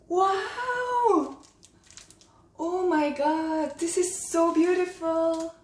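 high, stretched-out wonder; awed delight. Real, not acted. Vlogger admiring a beautiful gift, awed delight. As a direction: draw it out, overwhelmed by how lovely it is.

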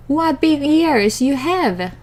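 put-on high, slow wondering girl; little girl voice. A narrator's reading.

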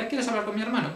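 high, sarcastic imitation; mimicking her sarcasm. Quoting her defiant reply about her brother, mocking high voice. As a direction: throw her retort back, mockingly high. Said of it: "Me dice".

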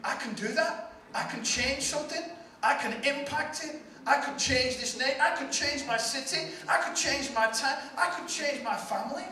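amazed, doubting listener; incredulous self-doubt. Retold or imitated. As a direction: ask it like you can't believe it. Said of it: "looks at himself and saying".

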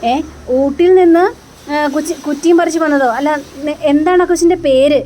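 a sudden confused double-take; confused surprise. Retold or imitated. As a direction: Ishitha caught off guard, asking in startled confusion. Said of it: "ആകെ കൺഫ്യൂഷനായി".

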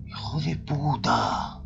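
slow breathless whisper of a swear; scared whisper at the screen; whispered curse. Real, not acted. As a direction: hiss it so the monster won't hear. Spotting the monster in horror game.

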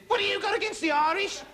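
high-pitched mock-outraged challenge; indignant conductor. Conductor challenging a passenger over the Irish, indignant. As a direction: play an affronted bus conductor, voice shooting up. Conductor picking on him, acted quarrel.

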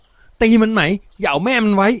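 high, loud, slow battle cry; shouting. A narrator's reading. Samorn shouts to her sister to attack. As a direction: yell it to egg her sister on. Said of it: "สมรก็ร้องบอกพี่สาว".

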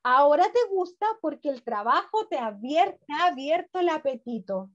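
amused mother. Acted. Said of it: "La madre se rió y dijo".

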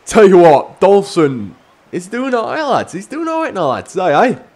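loud, high cheering for the player; excited praise. Real, not acted. Gamer praising his striker, loud and excited. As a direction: hype the player up.

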